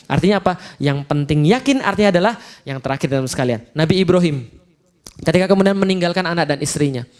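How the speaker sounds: normal talking voice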